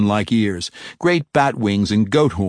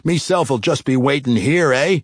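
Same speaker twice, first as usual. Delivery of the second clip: lightly voiced dwarf; 5 semitones higher than usual. Dwarf jailer left behind, lightly voiced dwarven grumble. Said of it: "said the dwarf".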